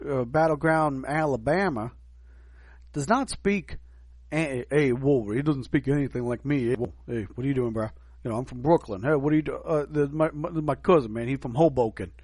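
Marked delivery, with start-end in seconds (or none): 4.3-12.1 put-on light Brooklyn street accent; New York accent. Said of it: "a person who's from New York".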